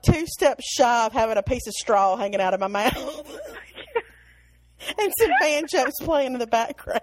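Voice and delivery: laughing through the punchline. Real, not acted. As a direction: chuckle while finishing the sentence. Self-mocking joke, laughing.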